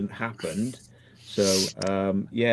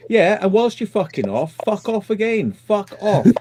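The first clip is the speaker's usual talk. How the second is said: much higher, louder, breaking into laughter; laughing mock yell; 9 semitones higher, 7 dB louder than usual. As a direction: gleefully shout him away. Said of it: "and I went".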